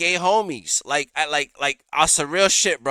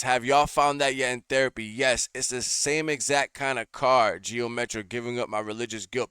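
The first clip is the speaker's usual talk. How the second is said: hurried, low-key read-through, softer as it goes; rushed reading; 3 semitones lower, 5 dB quieter than usual. Real, not acted. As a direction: read the message off quickly, running sentences together. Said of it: "I had to read it fast".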